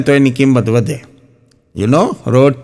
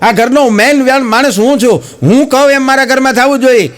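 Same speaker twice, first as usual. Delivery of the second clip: mock furious husband laying down the law; angry husband yelling; 10 semitones higher than usual. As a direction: bellow orders at his wife. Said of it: "જોર જોરથી ગુસ્સોમાં આમ રાયડું પાડી પાડીને".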